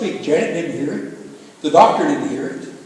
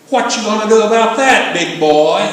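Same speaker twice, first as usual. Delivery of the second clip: teasing challenge, pushed a little louder; joking banter; 3 semitones higher, 4 dB louder than usual. Retold or imitated. God bantering with his friend the preacher, joking and teasing. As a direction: needle him like an old buddy. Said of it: "carry on a joking, banner-type conversation".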